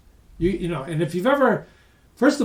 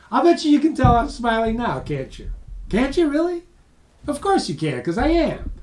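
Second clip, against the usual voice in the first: higher, lifted smiling voice; audible smile; 7 semitones higher, 3 dB louder than usual. Shown as a demonstration. Trainer showing listeners a smile on the phone, smiling voice. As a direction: say it through a big smile. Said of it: "My voice naturally follows my facial expressions".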